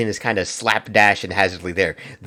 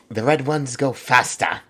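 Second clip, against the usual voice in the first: slow, higher second attempt at Cockney; Cockney accent retry; 4 semitones higher, slower than usual. Retrying the orc line in a Cockney accent. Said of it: "I can't do a Cockney accent".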